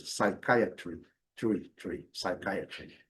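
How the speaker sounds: slow, low "Psychiatry" with a clear final "tree"; final claro. Shown as a demonstration. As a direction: isolate "tree", then repeat "Psychiatry" softly. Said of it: "com clareza". ("Psychiatry" devagar, com "tri" final nítido)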